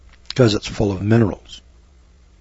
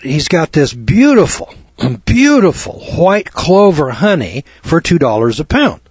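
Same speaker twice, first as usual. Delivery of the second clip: lightly imitated seller, higher on "beautiful"; enthusiastic sales pitch; 4 semitones higher than usual. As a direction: talk up the goods, pitch lifted. Bee man pitching his honey.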